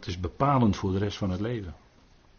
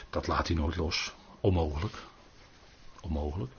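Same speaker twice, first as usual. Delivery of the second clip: hushed certainty; 5 semitones lower, 8 dB quieter than usual. Real, not acted. Preacher closes on certainty.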